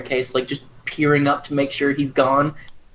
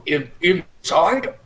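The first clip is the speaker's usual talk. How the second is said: hesitant surprise; 5 semitones higher than usual. Acted. Hesitant character reply.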